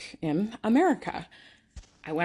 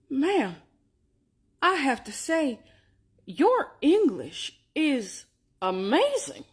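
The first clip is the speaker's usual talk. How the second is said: condescending clerk; 7 semitones higher, 3 dB louder, much slower than usual. Retold or imitated. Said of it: "he said this".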